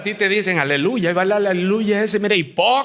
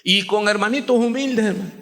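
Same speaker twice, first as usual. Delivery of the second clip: normal talking voice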